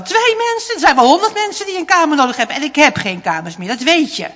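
scoffing father. A narrator's reading. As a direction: scoff at the idea, rushed. (vader spot luid en ongelovig)

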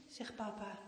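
ordinary delivery

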